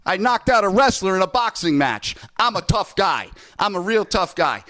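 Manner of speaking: a hammed-up hint of a cocky Jake Paul bragging about his record; Jake Paul imitation. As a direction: play a swaggering trash-talking YouTuber, half joking. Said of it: "I'll do my Jake Paul imitation".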